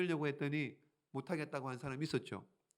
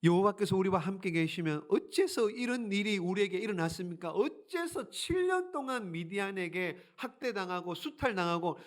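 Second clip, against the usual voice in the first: protesting; 3 semitones higher than usual. Acted. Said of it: "따지는 거예요".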